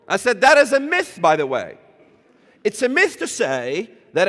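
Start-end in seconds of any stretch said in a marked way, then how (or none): 0.4-1.8 firm retort. Retold or imitated. Retold retort in interview.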